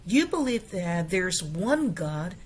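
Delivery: careful English model reading. Shown as a demonstration. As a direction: read the verse out carefully for the class. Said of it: "reads the verse as model".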